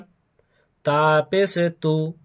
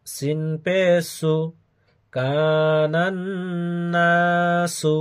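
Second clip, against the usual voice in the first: chanted letter-by-letter Quran drill; name each letter, then draw out the joined syllables; spelled-out recitation. Shown as a demonstration. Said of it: "বানান সহ উচ্চারণ করে". (বানান করে সুরে টেনে উচ্চারণ)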